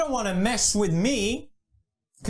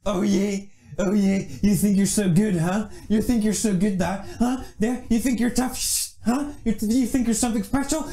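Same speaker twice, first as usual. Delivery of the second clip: taunting trash talk; 4 semitones lower, 3 dB louder than usual. Acted. Taunting a rival before a fight.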